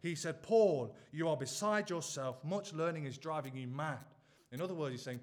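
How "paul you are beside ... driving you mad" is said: acted shout. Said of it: "he shouted out with a loud voice".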